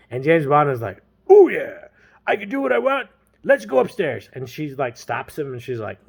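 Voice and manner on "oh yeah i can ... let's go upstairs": loud, high whoop of delight; mock eagerness. James accepts the girl's offer, hammed-up eagerness. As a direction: play him overeager, pitched up.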